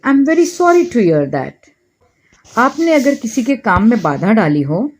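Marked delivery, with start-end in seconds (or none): 0.1-1.5 very slow, every word laid out clearly; slow model phrase. Shown as a demonstration. Teacher slowly models an English apology for Hindi learners. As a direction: say it slowly so learners can repeat it. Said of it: "तो आप कहेंगे".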